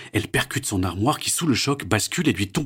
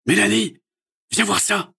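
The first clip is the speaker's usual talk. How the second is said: loud high call to daughter; 13 semitones higher, 6 dB louder than usual. A narrator's reading. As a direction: call her from outside. Father calls his daughter. (papa appelle sa fille fort)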